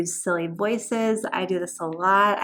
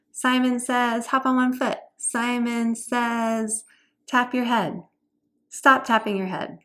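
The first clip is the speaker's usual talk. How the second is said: game leader; 3 semitones higher than usual. Shown as a demonstration. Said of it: "choose some things like".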